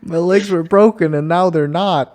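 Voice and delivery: high, laughing movie line; a laughing mock movie quote; quoting movie line. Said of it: "That was an actual line from the movie".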